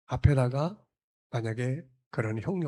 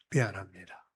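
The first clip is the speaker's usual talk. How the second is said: sincere apology; 3 semitones lower than usual. Shown as a demonstration. A preacher shows the congregation a sincere sorry, gently. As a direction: say "미안합니다" as if truly sorry. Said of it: "미안합니다라는 말이에요".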